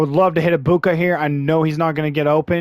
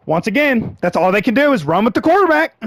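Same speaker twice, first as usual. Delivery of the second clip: raised, exasperated grumble about the quarterback; exasperated complaint; 5 semitones higher than usual. Real, not acted. Gamer griping at his team, exasperated.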